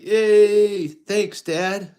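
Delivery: put-on high, loud delighted kid cheer; happy little Luke. Luke thanking his dad for cereal, high excited kid voice. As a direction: squeal thanks like a thrilled little boy. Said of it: "And Luke's like".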